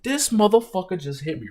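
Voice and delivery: loud, high, slow stunned outburst; retold shock at being hit; shocked disbelief. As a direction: replay the moment the punch landed. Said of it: "I'm like".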